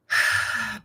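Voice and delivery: long, easy exhale; settling sigh. Real, not acted. Meditation leader settling into the practice, relaxed sigh.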